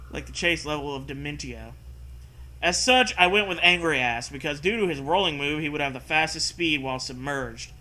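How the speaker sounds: steady read-aloud narrator voice; story narration. Acted. Reads the story text aloud.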